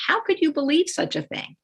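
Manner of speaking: high, scoffing disbelief; incredulous parent. Retold or imitated. Parent dismissing child's accusation, high incredulous tone. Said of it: "if you say to a child".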